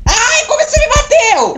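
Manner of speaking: very high squeal of protest; squeaky complaint. Acted. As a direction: squeal like you just got smacked. (reclamação aguda e fina)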